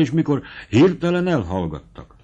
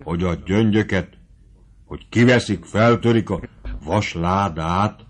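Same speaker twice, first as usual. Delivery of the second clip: stammering; 3 semitones lower than usual. Acted.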